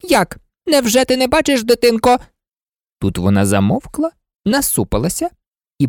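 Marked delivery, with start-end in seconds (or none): 0.0-2.2 high, haughty queen's voice; scolding queen. Acted. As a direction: talk down to the child. Red Queen scolding Alice.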